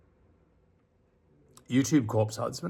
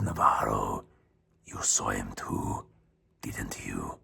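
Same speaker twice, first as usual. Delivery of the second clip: much lower, hushed, fearful question; trembling voice; 4 dB quieter, slower than usual. A narrator's reading. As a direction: ask it quietly, afraid of the answer. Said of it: "asked me with a trembling voice".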